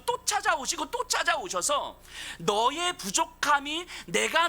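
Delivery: rising, pleading sermon climax; preacher crying out to the congregation, building to a passionate peak; impassioned preaching. Acted. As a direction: drive each clause harder like a revival preacher. Preacher builds to full force.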